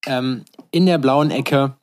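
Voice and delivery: boxing ring announcer voice; lucha libre announcer. Pretend. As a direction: drag out the fighter's name. Introduces fighter like ring announcer.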